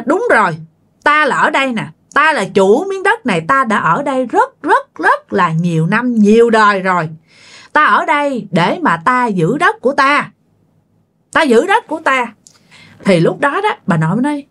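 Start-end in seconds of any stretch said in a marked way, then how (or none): 0.1-7.1 a hint of a possessing spirit asserting itself; spirit landowner. Land spirit answers the grandmother's question, mildly assertive spirit voice. 7.7-12.3 lightly voiced, higher-pitched guardian spirit; spirit landowner. Land spirit tells the grandmother it guards its land, lightly assertive.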